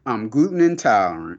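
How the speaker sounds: prissy imitation of the reporter; mocking prim voice. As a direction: mimic her excuse, prim and fussy. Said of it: "She's like".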